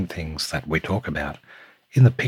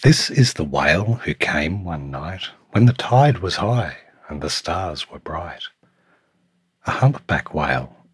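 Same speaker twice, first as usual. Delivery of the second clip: lilting storytime read with punched key words; picture book narration; 4 dB louder than usual. A narrator's reading. Reading a picture book to Samuel, lilting storytime voice. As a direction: read it to a small child, savouring the rhyme.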